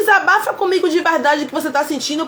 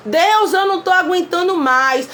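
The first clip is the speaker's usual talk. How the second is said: honest prayer. Shown as a demonstration. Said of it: "o que você tá sentindo de verdade".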